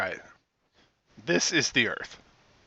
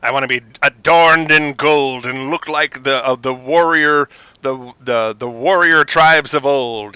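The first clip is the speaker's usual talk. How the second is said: lightly voiced grand actor; a touch of stately theatrical delivery; John Colicos. Actor describing his warrior look to makeup artist, lightly grand. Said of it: "in his best pre-Count Baltar voice".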